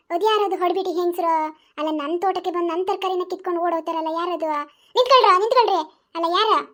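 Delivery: put-on loud old granny shouting at thieves; granny yelling. Old granny catching thieves in her garden, loud yell. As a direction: bellow at them to stop.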